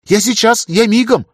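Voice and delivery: high, loud, bustling reassurance; fussing. A narrator's reading. Greta bustles off to fetch water, high and eager. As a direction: hurry to fetch it, all in a flurry. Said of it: "захлопотала она".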